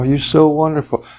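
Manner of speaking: admiring tenderness, lightly acted; loving voice. Shown as a demonstration. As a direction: adore them as if a lover. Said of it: "when you love your lover".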